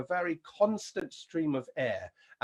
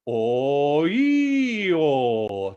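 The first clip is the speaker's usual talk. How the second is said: head voice slide; 8 dB louder, much slower than usual. Shown as a demonstration. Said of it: "let's go".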